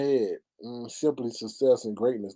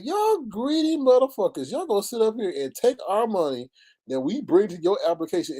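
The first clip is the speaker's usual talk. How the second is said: mildly outraged, pitched-up complaint; retold indignant scolding; 6 semitones higher than usual. Host retelling complaint to Stereo about money, indignant scolding. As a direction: retell telling them off, voice raised in pitch.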